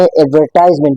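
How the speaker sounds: एडवर्टाइजमेंट with "tize" like "ties"; full long i in एडवर्टाइजमेंट; British-style pronunciation here. Shown as a demonstration. Teacher explains the British form, British-style pronunciation. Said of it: "इसको हम British English में".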